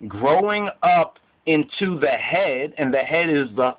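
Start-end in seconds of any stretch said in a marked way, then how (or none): 0.1-2.7 slow deliberate emphasis. Shown as a demonstration. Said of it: "And take note of this".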